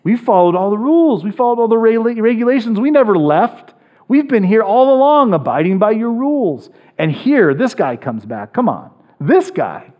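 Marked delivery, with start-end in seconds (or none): 0.0-8.9 put-on sulky older brother. Older brother's complaint voiced.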